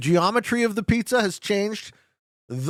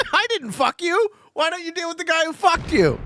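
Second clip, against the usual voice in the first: laughing protest; 12 semitones higher, 4 dB louder than usual. Real, not acted. Laughing at player who attacked.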